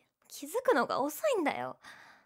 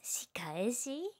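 slow suspicious whisper; 6 dB quieter, much slower than usual. Acted. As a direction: hush it, wary of revenge.

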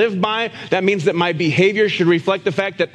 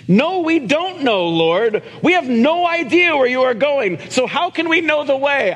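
higher, confused disciple voice; a bewildered disciple pleading for directions; puzzled Thomas; 6 semitones higher than usual. Acted. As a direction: play Thomas lost and asking. Pastor voicing Thomas's confused question.

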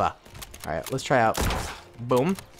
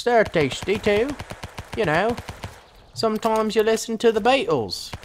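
mock British. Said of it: "I'm British, you know".

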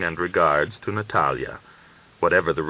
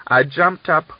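much higher, louder mock scolding; retold dressing down; 9 semitones higher, 6 dB louder than usual. Daria replays how she scolded the young lad. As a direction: scold the boy with relish. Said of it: "I gave him a fine dressing down".

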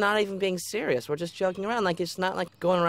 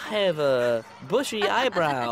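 lightly voiced kid impression; Junior. Making the coach laugh on request, mild mocking impression. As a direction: mimic a classmate's halting, funny speech. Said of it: "Do a Junior".

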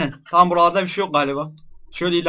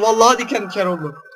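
ordinary talk, nothing marked

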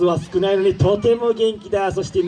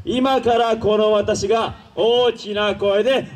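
slow announcement; 2 semitones higher, slower than usual. Acted.

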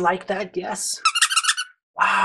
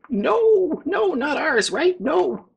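crowd answering; 9 semitones higher, slower than usual. Acted. Voicing the crowd.

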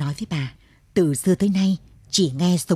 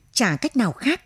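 cutting in; 6 semitones higher than usual. A narrator's reading. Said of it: "Bà cắt ngang lời".

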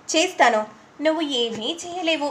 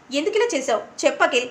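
ఇలా pressed as the repeated question rises; a touch of anger, demanding an answer; mild anger; faster than usual. Acted. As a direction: let the anger build on the repeat. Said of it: "అని కోపంగా అంటూ ఉంటే".

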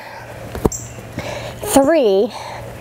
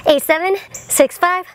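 excited; 6 semitones higher than usual. Real, not acted. Final countdown climbing in pitch.

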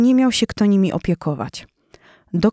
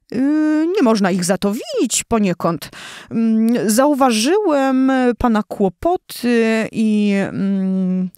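stammering embarrassed lion; 3 semitones higher, slower than usual. Acted. Lion stumbling toward offering help.

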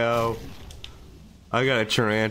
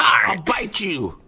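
slow, louder, higher mock monster threat; playful monster growl; 6 semitones higher, 4 dB louder, much slower than usual. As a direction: growl it out slowly like a silly beast. Playful threat after the roar.

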